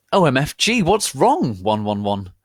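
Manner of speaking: very high, loud mock panic; hammed-up alarm. Ebony asking crying Voldemort, high mock panic. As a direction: squeal it like a dramatic teen. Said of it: "I asked".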